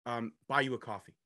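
gently smooth things over like a courteous translator; a translator apologising to a stranger, softly polite; mild polite translator. Pretend. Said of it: "be his translator".

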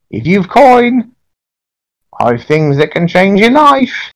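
high, creaky witch crone; very old woman. Acted. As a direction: cackle it out like a market hag. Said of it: "a very, very old woman, in a black robe".

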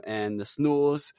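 slow, portentous fantasy narrator; drawn-out, hammed-up tale of the North; mock-epic narration. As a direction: recite it like a grim saga. Mock epic recital of winter's coming.

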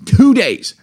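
yelled high and loud in disbelief; outraged shout. Retold or imitated. Husband retelling the airline news, outraged shout. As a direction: blurt it out like the news is a disaster. Outraged at two-day wait.

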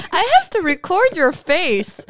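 real laughing aside. Real, not acted. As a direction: talk while cracking up. Laughing at cohost.

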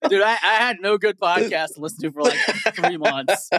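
laughing through the words. Real, not acted. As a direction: tease while laughing. Laughing while teasing.

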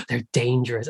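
hushed mock-scandalized gasp; gasp, then mimic a fearful snob under your breath; mock alarm. Mocking others' alarm at working class.

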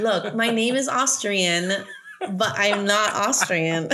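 slow, through real laughter; amused, laugh-broken insistence; laughing protest. Real, not acted. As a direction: defend yourself while cracking up. Laughing defence of bad accent.

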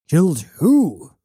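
high, startled question; shocked demand. Acted. Bound prisoner demands the victim's name from his captor, shocked. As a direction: blurt it out in disbelief. Prisoner reacts to accusation of killing.

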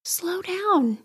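gentle reassuring slow down; soft gentle. Shown as a demonstration. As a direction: down said tenderly. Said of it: "If your body is saying".

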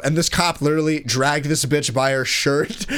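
ordinary talk

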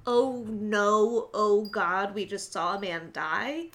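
mock horror.

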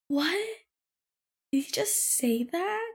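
high-pitched baffled coworker imitation; confused. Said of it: "is so confused".

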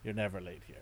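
lightly voiced King Koopa toy; soft playful villain figure voice; gruff tinny action figure. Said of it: "King Koopa says".

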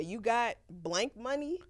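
lightly acted mama, questioning the child; mama's retort. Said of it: "Your mama say".

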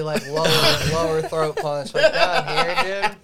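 laughing through the words; giggling while describing burn. Real, not acted. Laughing about throat burn.

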